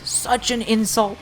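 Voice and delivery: ordinary delivery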